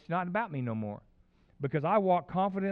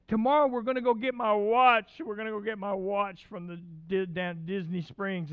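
put-on excited kid; 5 semitones higher, 4 dB louder than usual. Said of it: "he's just excited".

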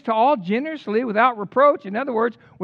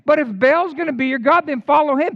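Elijah's challenge; 4 semitones higher, 6 dB louder than usual. Retold or imitated. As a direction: call it out like a prophet daring the crowd. Preacher voicing Elijah's challenge.

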